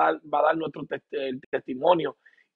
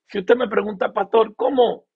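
louder, higher, calling out the question; raised preaching voice; 5 semitones higher, 6 dB louder than usual. Acted. Preacher to congregation, voicing their question loudly. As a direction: lift the voice as if asking the pastor.

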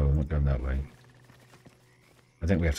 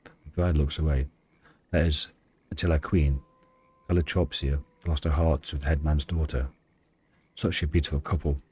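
story narration. Acted. Reads game story aloud.

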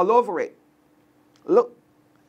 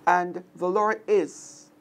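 slow meditative; slower than usual. Shown as a demonstration. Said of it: "Find some time today".

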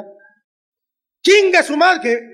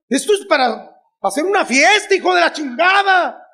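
mother celebrating; 3 semitones higher than usual. Retold or imitated.

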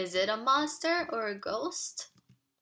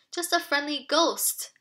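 a touch of a higher call; mild shout back; 5 semitones higher, 3 dB louder than usual. Acted. Tim calls back to Dad at the parade, mild shout. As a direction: lightly shout the answer back. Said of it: "Tim shouted back".

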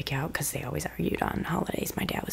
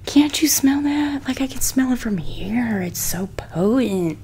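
high, loud, slow excited whisper; thrilled hushed exclaim; 7 semitones higher, 8 dB louder, slower than usual. Real, not acted. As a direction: gush over the smell in a whisper. Excited about the scent.

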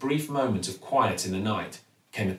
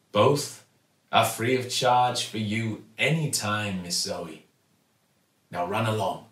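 kindly shopkeeper. Acted. Raj bids farewell.

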